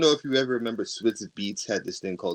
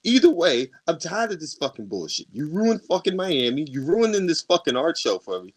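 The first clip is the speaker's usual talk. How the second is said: a somewhat higher, heated retold rant; angry rant; 5 semitones higher, 3 dB louder than usual. Telling off the ex at the art show, heated. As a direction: tear into her, telling her off. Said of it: "loses my temper or cool".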